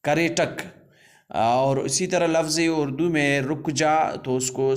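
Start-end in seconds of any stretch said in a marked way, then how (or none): 0.0-0.6 کریٹک repeated clearly as ka-re-ṭak, retroflex ṭ, final k; Rakhshani kareṭak. Shown as a demonstration. Teacher repeats the Rakhshani word for learners. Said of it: "Rakhshani لہجے میں اس کو کہتے ہیں کریٹک".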